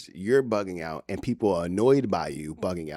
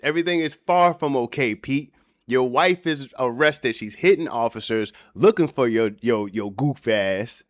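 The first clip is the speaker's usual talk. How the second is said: calling out; 5 semitones higher, 5 dB louder than usual. Acted. Talking at husband on video.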